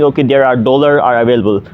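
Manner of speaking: normal talking voice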